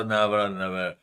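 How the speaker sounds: getting stuck on نیورا, restarting and breaking off; stumbling over a name. Retold or imitated. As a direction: act out tripping over نیورا, نیور. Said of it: "میں بھی اڑ جاتا". (نیورا، نیور پر اٹکتے ہوئے)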